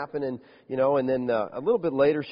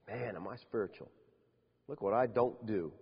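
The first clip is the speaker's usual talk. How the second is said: mock proud Pharisee; 6 semitones lower, 8 dB quieter than usual. Mocking prideful Pharisee voice.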